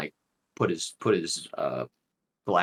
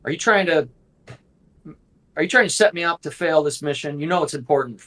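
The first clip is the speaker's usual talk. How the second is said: a touch of nervous stammering; mildly apprehensive. Acted. Cornered young man denies knowing him, mildly apprehensive. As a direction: voice a young man lightly rattled and defensive. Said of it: "now he looks apprehensive".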